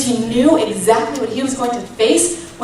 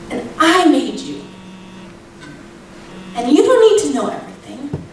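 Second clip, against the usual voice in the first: higher, emphatic retold answer from God; firm reassurance; 4 semitones higher than usual. God answers a doubting mother, firm reassurance. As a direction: assure with weight on each "I", in measured phrases.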